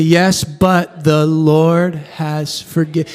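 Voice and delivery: measured responsive reading; congregation reading. Shown as a demonstration. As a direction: read it aloud together, slowly. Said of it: "read it with me".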